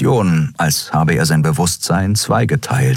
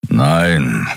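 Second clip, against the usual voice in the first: growled no; 3 semitones lower than usual. Acted. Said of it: "knurrte er".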